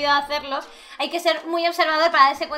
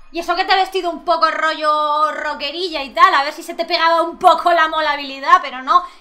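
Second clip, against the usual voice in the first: loud teasing scolding; 4 dB louder than usual. Real, not acted. Scolding the character.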